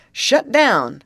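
high, loud command; quick urgent call. A narrator's reading. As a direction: call it out sharply as a warning. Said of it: "called Hank Belton quickly".

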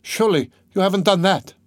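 high, horrified disbelief; appalled, high-voiced sister; horror-stricken. A narrator's reading. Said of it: "cried Dunya, horror-stricken".

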